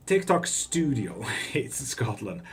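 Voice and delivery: hammed-up, slow mock Scottish accent; bad Scottish accent. Streamer joking about Scots hating Scots, terrible Scottish accent. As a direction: do a badly faked Scottish accent, drawn out with laughs. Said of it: "That was the worst fucking Scottish accent".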